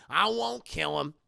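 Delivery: resigned acted grumble; grudging promise. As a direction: give in sullenly, with the force gone. Second, subdued giving in.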